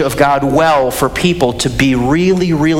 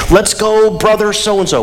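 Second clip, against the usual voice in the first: higher-pitched mock cheer from the stands; retold cheering yell; 6 semitones higher than usual. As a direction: imitate a kid cheering on the pitcher. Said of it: "I yelled".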